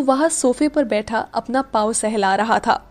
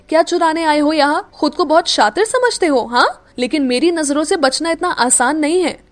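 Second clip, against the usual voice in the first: accusing; 4 semitones higher, 4 dB louder than usual. Acted. Meera catches a supposed thief.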